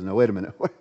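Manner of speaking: can't believe what he just heard; protesting prophet. Acted. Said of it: "The prophet says".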